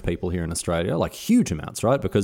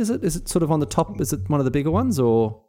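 mock clueless; 11 semitones higher than usual. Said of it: "mock ignorant questioning".

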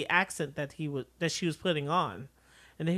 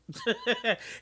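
imitated chuckle; 5 semitones higher than usual. Acting out his reaction.

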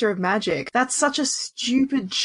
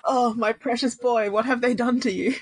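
mock lament. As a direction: draw it out, grieving over a wronged darling. Mock lament over a favourite character.

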